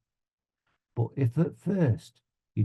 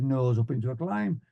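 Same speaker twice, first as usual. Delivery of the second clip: student's repeat. Retold or imitated. Student pilot answering the flying instructor, obedient repeat.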